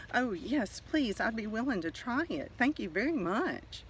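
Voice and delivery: a hint of a grateful small egg; eager little egg. Little egg thanks the fish, lightly eager. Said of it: "The little egg said".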